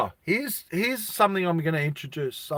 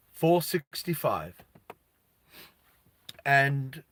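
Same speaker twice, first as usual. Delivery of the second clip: lightly voiced official. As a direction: lightly play an official issuing instructions, with long pauses.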